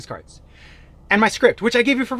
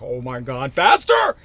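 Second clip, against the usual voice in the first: mock breathless shout; 7 dB louder than usual. Coach showing himself panting at doors, shouting faster. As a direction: cry out faster as if racing between doors. Acting out panting during live knocking.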